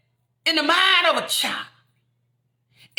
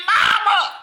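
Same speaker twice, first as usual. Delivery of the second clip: calling Mama; 6 semitones higher, 4 dB louder than usual. Retold or imitated. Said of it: "I was saying".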